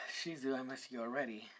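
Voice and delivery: soft, understated grief with long pauses; mildly tearful. Acted. Issei missing Shizu just after absorbing her, mildly tearful. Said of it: "start crying a bit".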